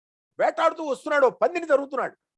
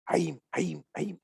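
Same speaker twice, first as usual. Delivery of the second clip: boar's cry; 8 semitones lower, 7 dB quieter, much slower than usual. Retold or imitated. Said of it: "అన్నదే".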